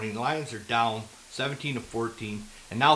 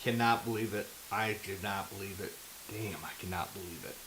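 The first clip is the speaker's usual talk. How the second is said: stunned disbelief; 7 semitones lower, 16 dB quieter than usual. Real, not acted. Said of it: "am I so pissed right now".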